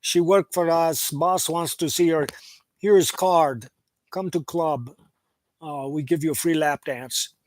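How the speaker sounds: a hint of a Russian accent, dropped articles; lightly voiced Russian thug offering a card. Thug inviting Denzel to the club, light Russian accent. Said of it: "in Russian accent".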